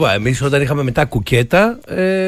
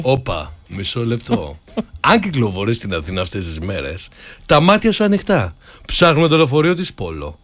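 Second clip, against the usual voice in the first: more erotic; 6 semitones lower than usual. Pretend. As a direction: croon the announcement low, like a playful seduction. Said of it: "θα το πάω πιο ερωτικά".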